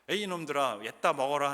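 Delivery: angry Moses. Retold or imitated. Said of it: "모세가 화가 났어요".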